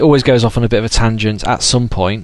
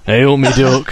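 broad Derby local greeting; Derby accent. Shown as a demonstration. A Derby local greeting someone, Derby accent. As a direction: put on a Derby dialect greeting. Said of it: "I've got a Derby accent".

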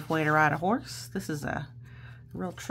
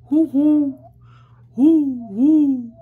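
loud, higher hoots; loud owl hooting; 8 semitones higher, 14 dB louder than usual. Shown as a demonstration. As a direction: hoot it out like an owl. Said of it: "He can go like an owl".

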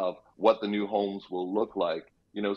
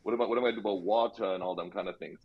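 put-on Jamaican accent. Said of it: "I don't know why I'm slipping into this Jamaican accent".

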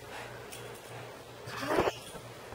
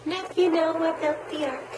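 slow singsong; 7 semitones higher, slower than usual. Real, not acted. Teaching baby a rhyme.

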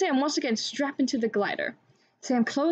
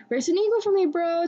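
raised, higher-pitched call; 7 semitones higher, 4 dB louder than usual. A narrator's reading. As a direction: call out to a friend. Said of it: "Tito called to his friend".

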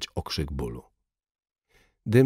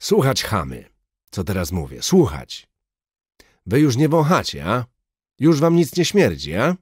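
put-on high, loud Russian-accented scream at the crowd; furious yell; 6 semitones higher, 6 dB louder than usual. A narrator's reading. Soviet major screaming at the Lwów crowd, high loud accented rage. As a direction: scream mockery over the crowd. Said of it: "wrzasnął".

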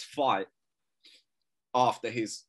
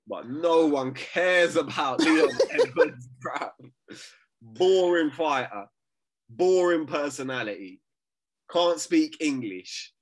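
mock rant; 2 semitones higher, 5 dB louder than usual. Ranting against Leon Edwards.

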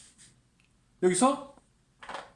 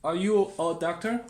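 slow correct question; 3 semitones higher, much slower than usual. Shown as a demonstration. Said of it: "그래서".

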